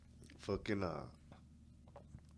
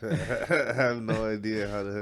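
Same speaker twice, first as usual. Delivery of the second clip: mock repeat; 3 semitones higher, 12 dB louder, slower than usual. Mocking friend's line, laughing.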